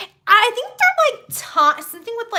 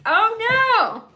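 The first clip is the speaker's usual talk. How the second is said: higher-pitched mock nervous fretting; nervous Mobius; 4 semitones higher than usual. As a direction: imitate someone anxiously easing into it. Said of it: "there's Mobius all nervous".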